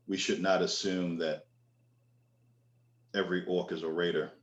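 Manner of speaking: father apologizes to the orc, calm and sincere; sincere apology. Acted. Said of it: "and says".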